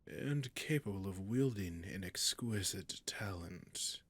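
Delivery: a covetous, hushed whisper; seductive whisper. Acted. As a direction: whisper as if savouring a prize. Dragon admiring captive.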